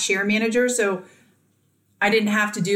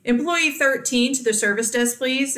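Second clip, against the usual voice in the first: PA page; 3 semitones higher than usual. Retold or imitated. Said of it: "it'd be like".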